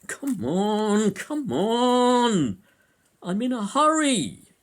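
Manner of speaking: high, loud road-rage imitation; impatient mock shout. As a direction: yell like a pushy tailgating driver. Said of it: "that kind of attitude even shows itself".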